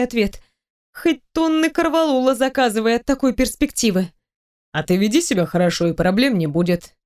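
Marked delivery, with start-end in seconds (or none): 4.7-6.9 low, gentle man's voice; tender. A narrator's reading. Boss rising from his knees to warn her, tender. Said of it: "сказал он ласковым голосом".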